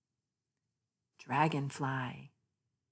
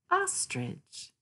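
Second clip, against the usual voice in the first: much higher, a sudden squeak; squeaky high; 14 semitones higher than usual. Acted. Narrator names the ostrich to children with a high squeak. Playful animal name reading.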